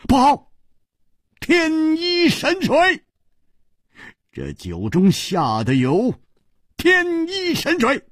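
high, alarmed cry; horrified. A narrator's reading. Chu Liuxiang realizes the poison, horrified cry. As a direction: gasp out the poison's name in horror. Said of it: "大骇道".

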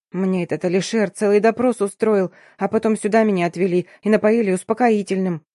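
ordinary delivery

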